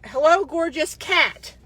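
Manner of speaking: slow, mock-sleazy greeting; mocking a creepy flirt. Quoting the soldier's message to viewers, slow mock flirt. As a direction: drawl it out like a cheesy pickup line. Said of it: "that's what that says".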